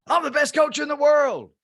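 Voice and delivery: high, loud confident boast; proud declaration. Retold or imitated. Steve declaring himself the best coach, high and loud. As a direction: declare it like a champion.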